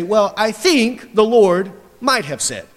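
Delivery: slow, unsure, hedging tone; mocking the hesitant preacher; mock timid hedging. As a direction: sound apologetic and wishy-washy. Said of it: "We have to say".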